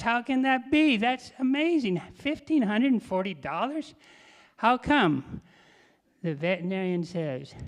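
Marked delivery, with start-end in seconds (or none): 0.0-5.4 high, incredulous protest; mock outrage. Dog owner disputing the vet's bill, mock outrage. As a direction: demand an explanation, voice pitched up.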